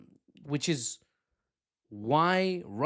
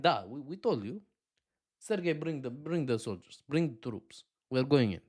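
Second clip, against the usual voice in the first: put-on Russian-accented matter-of-fact command; mock Russian accent. Russia telling Sergei to bring troops, mock Russian accent.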